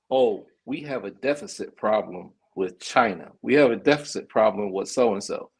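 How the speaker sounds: lightly imitating a polite president on TV; nice president voice. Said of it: "he says it nice".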